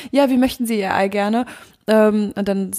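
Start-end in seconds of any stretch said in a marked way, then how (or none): 0.1-1.4 1 polite hotel waiter. Retold or imitated. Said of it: "So Hotelfrühstück".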